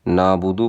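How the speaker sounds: نعبد as "naa-budu"; نعبد without its throat sound; mistaken dropped ain. Shown as a demonstration. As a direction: say نعبد with a long vowel and no ain. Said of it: "پڑھتے ہیں".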